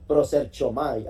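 prosechomai spoken slowly, syllable by syllable, like a demonstration; careful Greek word. Shown as a demonstration. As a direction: spell out prosechomai slowly for the congregation. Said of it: "me salió perfecta la pronunciación".

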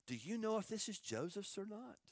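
soft, innocent-sounding question; feigned innocence. Acted. Brothers showing the coat to their father, feigned innocence. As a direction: ask it softly as if you had no idea. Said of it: "How deceptive".

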